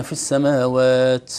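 slow السماوات ending in an overdone "ts"; excessive hams. Shown as a demonstration. Teacher shows the over-aspirated ta error, hissing like seen. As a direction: let the final t of السماوات hiss out like an s. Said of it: "كأنه همس السين أو قريب من همس السين".

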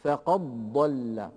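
"فقد ضل" with the dal merged straight into a doubled ض; slow "فقد ضل", going from qaf directly to ض; assimilated recitation. Shown as a demonstration. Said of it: "أدغم الضاد الساكنة في الضاد المتحركة". ("فقد ضل" بإدغام الدال في الضاد)

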